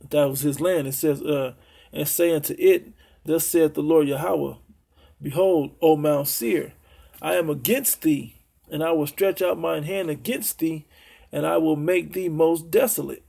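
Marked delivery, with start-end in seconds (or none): 1.9-13.2 measured, solemn Bible reading; scripture reading. Acted. Preacher reading Ezekiel to his listeners, solemn and measured. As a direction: read the prophecy like pronouncing judgment.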